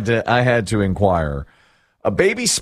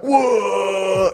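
higher startled whoa; imitating teens startled by the dog: mock surprise, higher; 8 semitones higher than usual. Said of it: "all the teens are like".

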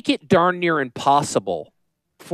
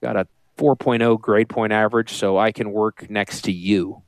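lower, put-on mock of a grudging assistant; sarcastic lowered voice imitating the assistant; host mocks assistant's complaint, lower and sarcastic; mock Julia; 7 semitones lower than usual. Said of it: "Julia's like".

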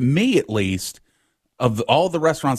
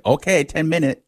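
lightly voiced order taker, higher pitch; a hint of the lady's higher voice; imitated restaurant lady; 5 semitones higher than usual. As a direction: quote the lady confirming a phone order. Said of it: "the lady said".

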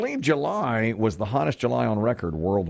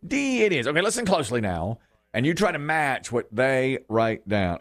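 game show host; 3 semitones higher than usual. Acted. Radio host greeting the caller with game show pep. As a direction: work the contestant like a TV quiz host.

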